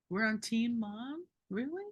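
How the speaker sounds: echoing the doctor's "team mom" with sarcastic disbelief; incredulous mockery. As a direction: throw his words back at him in scorn. Mocking doctor's phrase back.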